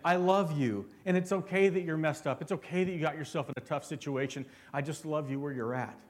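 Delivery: soft, gentle father's words; loving father. Pretend. Pastor voicing a father calling his child to come, tender and soft. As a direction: speak low and tender like a dad comforting a child. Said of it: "just like a father would say".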